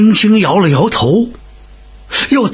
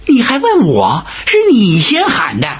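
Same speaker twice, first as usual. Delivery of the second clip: higher, near-tearful protest; aggrieved whine; 4 semitones higher than usual. Acted. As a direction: whine back that it was his fault. You Hun retorts, aggrieved.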